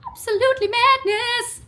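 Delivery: high, loud, gushing squeal; excited squeal. Real, not acted. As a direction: burst out with delight. Gushing over gifted parcel.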